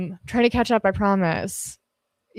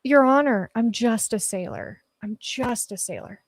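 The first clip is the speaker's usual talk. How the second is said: mock court plea; 4 semitones higher than usual. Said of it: "should I just use that in court?".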